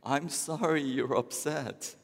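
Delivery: slow apology with a nervous laugh; sheepish laughing apology. Acted. Husband apologizes to wife with a sheepish laugh. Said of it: "The husband says".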